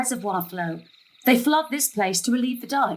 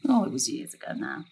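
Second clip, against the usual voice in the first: much lower and softer, brushing it off; low wistful deflection; 10 semitones lower, 4 dB quieter than usual. Acted. Mother dodging her daughter's questions, low and soft. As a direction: wave the memory away quietly.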